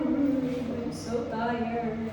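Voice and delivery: mabagal at paos na boses; pagod na paos. Real, not acted. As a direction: hinihilang parang ubos na lakas. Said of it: "Iba na yung boses ko". (paos na boses dahil sa sobrang pagod)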